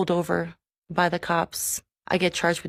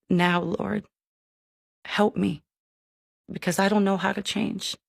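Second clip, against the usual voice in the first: weeping prayer. Retold or imitated. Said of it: "I started weeping".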